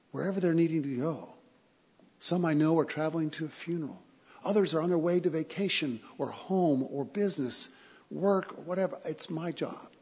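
emotional pilot. Retold or imitated. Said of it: "He even kinda got emotional".

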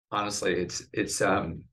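choked up. Real, not acted. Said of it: "get choked up ever even talking about it".

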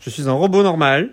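stiff, bad robot voice. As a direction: talk like a clunky android. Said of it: "avec des voix de robots nuls".

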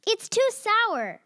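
drawn-out whining complaint; whiny complaint. Acted. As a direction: whine it slowly like a fussy kid. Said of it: "she complained".

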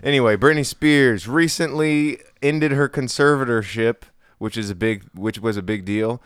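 celebrity news read; entertainment news host. Acted. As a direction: present it like TV gossip. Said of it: "That was what I was looking for".

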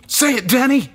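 loud, high, desperate shout; scream. A narrator's reading. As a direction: scream the command at him. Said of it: "he screamed".

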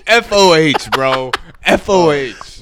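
frat bro. Real, not acted. Bros reacting to a review.

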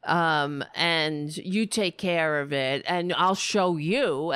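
mock whining. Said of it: "whining and saying".

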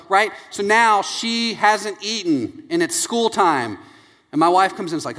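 normal talking voice

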